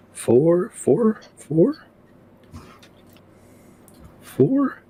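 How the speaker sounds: high, rising questioning repeats; incredulous counting. Acted. Listener at the door counting enemies, incredulous.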